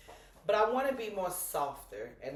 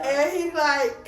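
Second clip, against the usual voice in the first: drawn out; 10 semitones higher, 9 dB louder, much slower than usual. Real, not acted. Stretching out lead-in.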